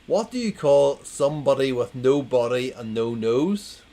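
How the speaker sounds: loud, rising quiz question; second go at the riddle, loud; re-read setup. Shown as a demonstration. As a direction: ask it again loudly. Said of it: "I'm gonna read it again".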